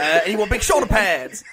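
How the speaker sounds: hammed-up Southern accent; comic Southern American debater. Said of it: "in a Southern American accent".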